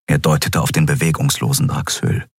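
ordinary delivery, nothing marked

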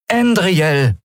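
high-pitched call; calling after someone. A narrator's reading. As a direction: call the name to stop someone leaving. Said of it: "rief Lien ihr nach".

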